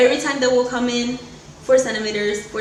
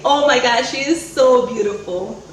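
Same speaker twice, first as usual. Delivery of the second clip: awed exclamation; 5 dB louder than usual. Retold or imitated. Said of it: "I just heard Carlos say".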